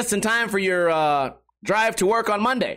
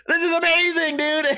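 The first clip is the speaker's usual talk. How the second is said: delighted; 6 semitones higher than usual. Retold or imitated. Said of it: "I'm like".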